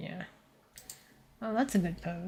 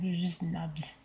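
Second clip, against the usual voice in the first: whispering; 6 dB quieter than usual. Real, not acted. Joke about Minecraft hands.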